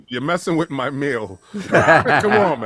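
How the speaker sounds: talking through food; words round a bite; mouth full. Real, not acted. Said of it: "Are you eating?".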